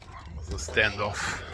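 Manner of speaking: hushed western narrator whisper. Real, not acted. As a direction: whisper it like a showdown. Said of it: "whispered aside".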